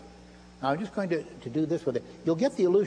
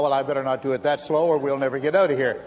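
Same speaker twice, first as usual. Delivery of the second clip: usual speaking voice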